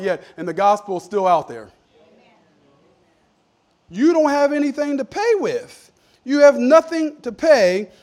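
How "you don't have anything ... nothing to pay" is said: slow, loud, hammered preaching; emphatic preaching. Real, not acted. Preacher pressing the congregation, slow and loud. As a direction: lean on every word and drive it home. Preacher driving the point home.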